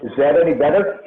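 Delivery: muffled and echoey, like underwater; echoing tunnel. Real, not acted. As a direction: talk as if down a tunnel. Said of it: "You sound like you're in a tunnel or maybe underwater".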